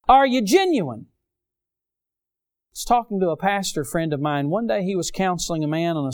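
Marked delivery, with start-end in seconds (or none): 0.1-1.1 pointed challenge. Real, not acted. Preacher's pointed challenge to congregation.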